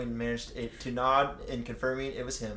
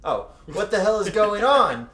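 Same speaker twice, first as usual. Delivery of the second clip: shocked thought; 7 semitones higher, 11 dB louder than usual. Acted. Reading Kakyoin's shocked thought.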